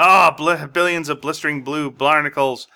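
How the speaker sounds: loud exasperated yelling; angry outburst. Acted. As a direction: blow up at the exploding couch. Haddock's sofa explodes under him.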